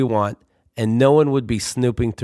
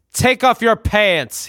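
mock command; 8 semitones higher, much slower than usual. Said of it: "he commands".

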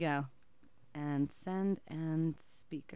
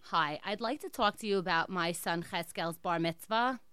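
put-on Jewish accent. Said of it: "I'm gonna be in an accent".

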